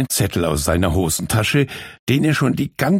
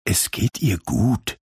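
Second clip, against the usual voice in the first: gently. Acted. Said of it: "sagte sie sanft".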